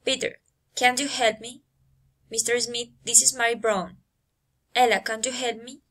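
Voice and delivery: "can you help me" climbing to the end; rising intonation. Shown as a demonstration. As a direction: call the name, then lift "help me" upward. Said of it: "rising intonation".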